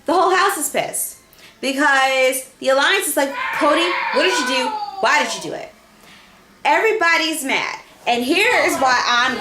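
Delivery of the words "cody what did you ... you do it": imitating upset allies, fast and insistent; mock exasperated demand. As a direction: demand answers like a let-down ally. Alliance confronting Cody in retelling.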